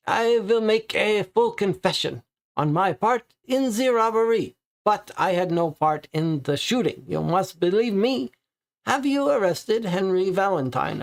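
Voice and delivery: high, pleading suspect in a put-on French accent. Papineau pleads innocence of the shooting, in a high French accent. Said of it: "I'm gonna stop with the accent".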